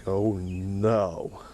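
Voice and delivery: put-on deep slurred drunk voice; a celebrity's drunk voice. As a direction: drawl it like a sloppy drunk. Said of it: "he had that real deep drunk voice".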